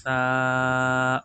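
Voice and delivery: "سا" as a long th, tongue tip out; soft Arabic tha. Shown as a demonstration. Teacher showing students the letter, long soft th. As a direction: draw "سا" out with a lisped th, not an s. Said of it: "سا نہیں ہے دوستو، سین کی آواز نکالتے ہیں".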